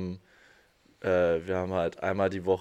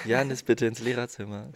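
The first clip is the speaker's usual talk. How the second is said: snail voice; 3 semitones higher than usual. Pretend. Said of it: "Mit so einer Schneckenstimme".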